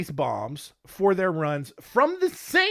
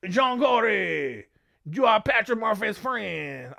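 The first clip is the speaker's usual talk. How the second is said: slow, odd put-on accent, dragged out; a mobster-ish mangled accent, half laughing at it; made-up accent like a Godfather character; weird mock accent; 3 semitones higher, slower than usual. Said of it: "I don't know what the accent that is".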